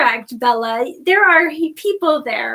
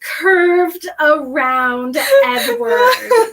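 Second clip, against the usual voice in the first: mock scandalized; 3 semitones higher, 4 dB louder, much slower than usual. Real, not acted.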